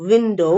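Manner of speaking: விண்டோ with a rounded W. Shown as a demonstration. Teacher repeating the word for learners, rounded W. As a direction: start விண்டோ with pursed, round lips. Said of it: "இங்கேயும் வாய் round ஆயிரணும்".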